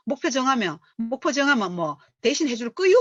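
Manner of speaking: 투덜대듯 비꼬는 반문; a grumbling newbie muttering back at the leader; mock rebellious retort. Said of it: "이러면서 ... 그런 반발심이 실실". (속으로 반발하며 따지는 말투)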